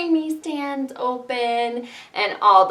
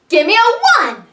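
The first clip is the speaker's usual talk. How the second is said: calling out; 7 semitones higher, 7 dB louder than usual. Acted. Calling for a number.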